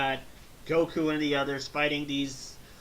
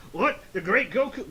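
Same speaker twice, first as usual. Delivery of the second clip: higher, louder mock southern surprise; southern accent; 6 semitones higher, 5 dB louder than usual. Thirteen amazed at the great Goku, mock southern accent. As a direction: exclaim with an acted southern twang. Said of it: "got the southern accent".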